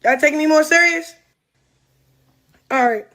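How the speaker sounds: no teeth, lips slack on every word; toothless. Real, not acted. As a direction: talk with your teeth taken out. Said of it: "let me take my teeth out".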